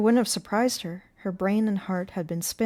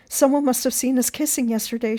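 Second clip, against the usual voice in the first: high, loud, anxious explanation; worried, raised voice; urgent alarm; 6 semitones higher, 7 dB louder than usual. A narrator's reading. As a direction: blurt out the bad news. Frightened explanation while fleeing.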